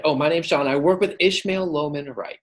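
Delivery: lifted cold-call greeting; quick bridge-building opener. Shown as a demonstration. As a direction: launch straight into the connection. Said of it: "very quickly build that bridge".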